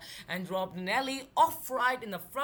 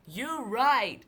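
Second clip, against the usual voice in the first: eager, louder exclamation; excited cry; 4 dB louder than usual. Acted. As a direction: burst out with it. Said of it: "cried Nellie".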